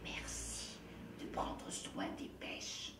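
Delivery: soft whisper to the onion. Acted. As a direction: whisper thanks tenderly to a vegetable. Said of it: "murmura Mathilde à l'oignon".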